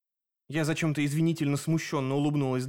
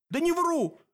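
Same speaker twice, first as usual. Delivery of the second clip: high, desperate denial; beg, pitched up high; pleading. A narrator's reading. Dan pleads with Sep that he isn't lying, high and desperate. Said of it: "взмолился Дэн".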